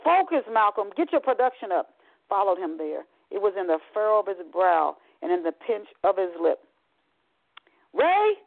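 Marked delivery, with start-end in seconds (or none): 0.0-1.9 barked. Acted. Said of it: "his line supervisor stood at his shoulder and barked". 7.9-8.4 high, loud call of the name. Acted. Father calls his son again.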